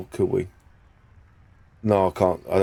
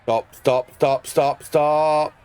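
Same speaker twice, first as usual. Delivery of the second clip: urgent yelling; 5 semitones higher, much slower than usual. Real, not acted. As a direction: beg the ball to stop, building up. Yelling at the rolling ball.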